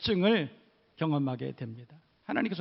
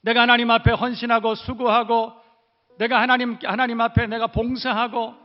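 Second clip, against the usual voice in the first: mild mock grievance, voice raised; complaining Israelite; 3 semitones higher, 5 dB louder than usual. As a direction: plead with God like a wronged believer. Voicing Israelites' complaint to God.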